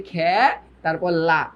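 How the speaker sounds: খে and লা apart, খে with open æ; syllable by syllable. Shown as a demonstration. Teacher showing students how they pronounce খেলা, syllables separated. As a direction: break it into "khæ", then "la". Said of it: "উচ্চারণ করছো হচ্ছে এই যে".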